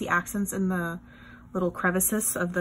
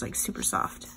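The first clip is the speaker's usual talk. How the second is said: soft whisper; 14 semitones lower, 8 dB quieter than usual. Real, not acted. Feeling soft paper.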